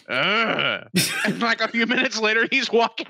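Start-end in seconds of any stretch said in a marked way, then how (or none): 0.1-0.9 low, brief mock "ugh"; imitated grunt. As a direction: grunt low, mimicking his annoyance. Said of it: "he just goes".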